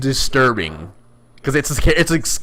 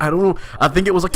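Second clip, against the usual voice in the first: sarcastic; 5 semitones higher, much faster than usual. Retold or imitated. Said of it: "He's clearly being sarcastic".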